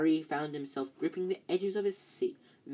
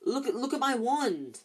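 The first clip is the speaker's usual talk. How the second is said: higher, distressed cry; dismayed, shaky plea; 8 semitones higher, 3 dB louder than usual. A narrator's reading. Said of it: "in a shaky voice".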